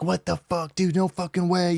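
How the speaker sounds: high-pitched mock disbelief at normal volume; imitated freaking out. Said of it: "He was freaking out".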